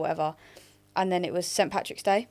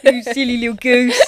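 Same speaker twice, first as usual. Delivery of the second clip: loud and giggling; laughing teasing; 8 semitones higher, 10 dB louder than usual. Real, not acted. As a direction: tease while cracking up. Teasing friend through laughter.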